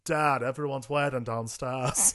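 slow, mushy bad Walken imitation; marbles in mouth. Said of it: "I'm a terrible Christopher Walken impersonator".

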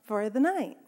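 talking while walking on a stepper; slightly winded, breathing between phrases. Real, not acted. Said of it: "I sound a little bit out of breath".

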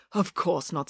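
teacher softly reassuring Tom; gentle. Acted. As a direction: soothe the boy.

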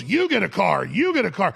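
lightly voiced TV host giveaway; Oprah. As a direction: announce the gifts like a talk show host, barely changed. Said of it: "Oprah goes".

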